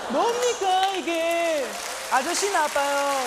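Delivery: high, loud indignant catchphrase; mock outraged shout. Worker yelling at the corner-store man, mock fury. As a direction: yell it like a cheated worker.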